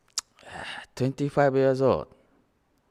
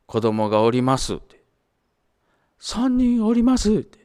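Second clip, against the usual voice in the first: higher, louder scolding teacher; retold angry lecture; 8 semitones higher, 4 dB louder than usual. Teacher scolding a student who never called home, raised and insistent. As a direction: press him hard to call his mom. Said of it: "近藤先生が怒ってね".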